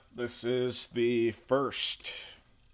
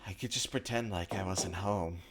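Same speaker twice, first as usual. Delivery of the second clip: measured first-person narration, softer than the chat; story narration; 5 dB quieter than usual. A narrator's reading. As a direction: read the inner monologue like a story. Reads visual novel narration aloud.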